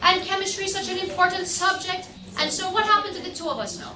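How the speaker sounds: a hint of an exasperated chemistry teacher; imitating scolding teacher. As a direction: play the frustrated teacher telling the class off. Teacher scolding the class, retold.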